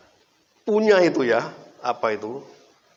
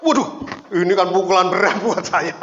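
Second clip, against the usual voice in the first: high, loud, laughing exclamation; mock dismay dissolving into laughs; 6 semitones higher, 6 dB louder than usual. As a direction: blurt it out loudly, breaking into laughter. Jokes about his shock at the confession.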